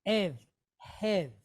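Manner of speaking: "Ev, hev" with an open E closed by V; E with V behind. Shown as a demonstration. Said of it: "like E H with a V sound behind it".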